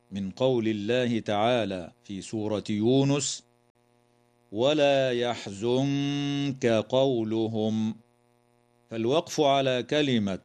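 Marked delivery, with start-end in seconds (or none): 4.5-8.0 very slow recitation; slow tajweed reading; Quranic recitation. Shown as a demonstration. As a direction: recite slowly and stop on قولهم. Verse recited.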